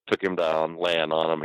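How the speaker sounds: ordinary talk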